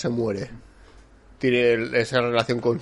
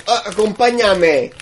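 higher, slow, coaxing come-along; mock seductive invitation; 9 semitones higher, 4 dB louder, slower than usual. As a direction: lure him in slowly and sweetly. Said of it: "le convence muy rápido". (invitación seductora de broma, aguda y lenta)

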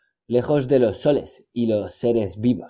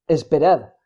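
hoarse murmur; 5 semitones higher, 4 dB louder than usual. A narrator's reading. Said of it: "murmuró con voz ronca".

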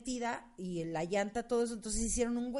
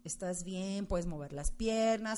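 calm self-talk; 4 semitones lower, slower than usual. Retold or imitated. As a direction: talk yourself down gently. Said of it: "yo me hablaba a mí misma así de".

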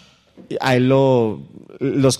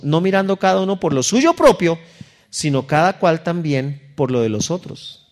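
scripture read aloud, raised and slow; lectura bíblica; 3 semitones higher, slower than usual. Acted. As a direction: read the verse like a preacher. Scripture reading. (lectura solemne del versículo)

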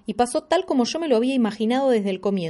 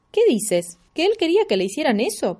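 high, louder astonished question; astonished mother; 7 semitones higher, 3 dB louder than usual. Acted. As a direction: gasp it out in disbelief. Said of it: "preguntó mamá asombrada". (madre asombrada)

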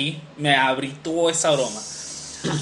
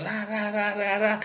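soft rattling bike sound; imitated riding noise; 3 semitones higher, 6 dB quieter, much slower than usual. Describes kids riding one behind another, imitating bikes. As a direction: mimic bikes rolling past one by one.

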